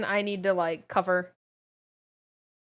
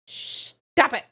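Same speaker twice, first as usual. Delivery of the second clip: whisper; 2 semitones higher, 3 dB quieter than usual. Real, not acted. Disgusted plea at the game.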